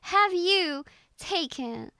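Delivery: slow, drawn-out British English; British accent. Acted. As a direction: put on a British accent, word by word. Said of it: "How would you say that in British English".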